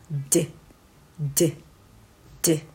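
"D" as a short voiced "duh" burst, not the letter name; voiced phonics D. Shown as a demonstration. Teacher drilling phonics, voiced burst for "D". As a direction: tap out "D" with voice, very short. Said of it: "有声音になります".

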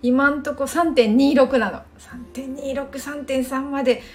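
each number spelled out slowly; slow emphasis on the score. Real, not acted. Score mid-level, stress the numbers slowly. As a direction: linger on the figures. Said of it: "score stress".

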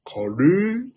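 カレー in the Koyuki melody; カレー with the pet drama tune; same intonation. Shown as a demonstration. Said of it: "このイントネーションで何でも言うよ".

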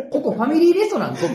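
laughing indignant retort; incredulous outburst. Acted. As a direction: exclaim it like you can't believe it.

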